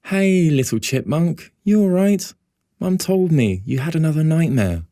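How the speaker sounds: big brother comforting his crying sister. A narrator's reading. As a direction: soothe a frightened little sister. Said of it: "say in an actual comforting voice".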